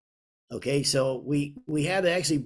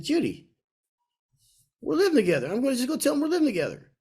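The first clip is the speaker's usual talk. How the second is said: put-on higher, fast and insistent, a young man sure of himself; eager retold vow, pitched up and hurried; bold declaration; 10 semitones higher, faster than usual. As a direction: announce it as settled, rushing ahead.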